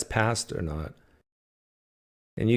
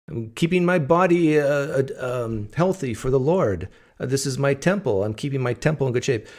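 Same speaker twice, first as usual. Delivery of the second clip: mock pious; 5 semitones higher than usual. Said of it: "I would joke like that with them".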